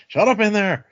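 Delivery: high, loud bark at a prisoner; a guard shouting through the door; guard yelling. Retold or imitated.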